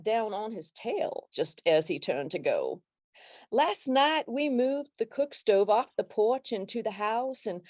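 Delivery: a light hint of a Louisiana accent, read slowly. Shown as a demonstration. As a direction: read the poem aloud with a gentle, slow Louisiana lilt. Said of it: "read this poem in my best Louisiana accent".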